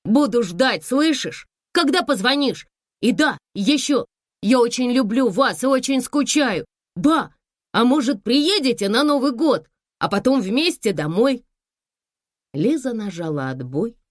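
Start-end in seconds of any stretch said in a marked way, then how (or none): 0.0-11.5 put-on high, loud brightened boy; happy now, asking her to come; cheered-up voice. A narrator's reading. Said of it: "Голос явно повеселел". (внук повеселевшим голосом)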